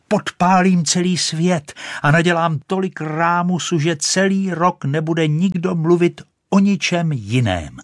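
shouting. Acted. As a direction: bellow over the world. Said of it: "křičela". (vysoký, hlasitý výkřik)

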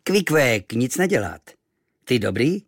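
kindly. Acted. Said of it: "vlídně usmál".

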